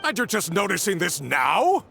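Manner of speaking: snapping shout of disbelief; angry shout. Acted. Boss yelling at his engineer, angry shout. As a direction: yell it at the useless engineer.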